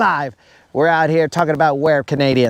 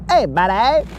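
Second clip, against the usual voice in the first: higher, quick mock Canadian voice; a friend gone Canadian griping about Florida heat; light, jokey Canadian hoser impression; Canadian accent; 6 semitones higher than usual. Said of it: "he's just gonna go".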